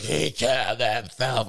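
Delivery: slow, drawn-out imitated moan; mock crying. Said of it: "starts hysterically crying".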